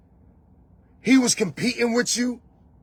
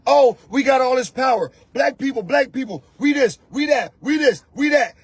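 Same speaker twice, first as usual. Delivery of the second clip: mock boastful shout; 4 semitones higher than usual. Mocking boasters, shout heard.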